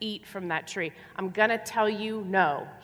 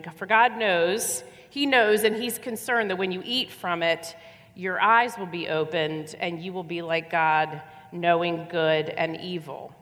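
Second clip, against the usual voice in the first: 1 persuasive serpent. Acted. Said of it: "the serpent said to the woman".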